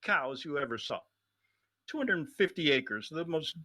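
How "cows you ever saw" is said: Trump-style brag. Retold or imitated. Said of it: "like Trump would say".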